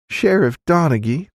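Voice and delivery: high feminine southern voice; pleading woman. A narrator's reading. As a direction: call on the sheriff, questioning. Woman addresses the sheriff.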